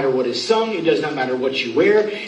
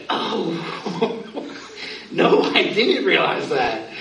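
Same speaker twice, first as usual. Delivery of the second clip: soft, slow, with a little laugh; embarrassed mock innocence; sheepish realization; 3 dB quieter, much slower than usual. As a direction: play the caught-out junior pastor. Sheepish reply to senior pastor.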